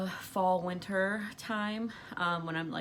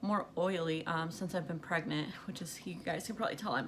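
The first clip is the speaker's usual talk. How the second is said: breathless, gasping between words; talking while short of breath. Real, not acted. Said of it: "super out of breath when I'm talking".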